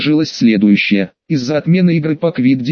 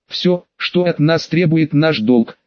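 unruffled; slower than usual. Acted. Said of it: "невозмутимо ответила Боунс".

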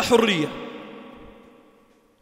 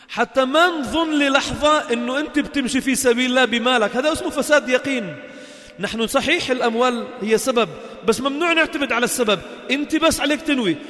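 shouted preaching; 5 semitones higher than usual. Acted. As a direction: thunder it at the crowd. Preaching at full force.

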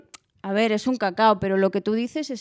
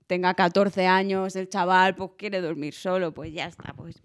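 relaxed reassurance; 4 semitones lower than usual. Retold or imitated. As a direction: talk yourself down gently. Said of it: "y luego dices".

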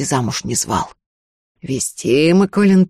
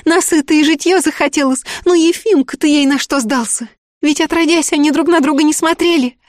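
a much higher, louder anguished plea; desperate pleading; 13 semitones higher, 4 dB louder than usual. A narrator's reading. The girl begs the sorcerer for help, desperate pleading. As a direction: beg as if your life depends on it.

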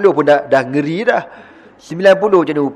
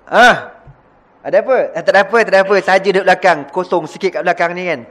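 higher, sheepish excuse; Salman's sheepish reply; 4 semitones higher, faster than usual. Retold or imitated. Salman caught sitting at the back, higher sheepish excuse. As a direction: act coy, brushing it off. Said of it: "Nabi kata".

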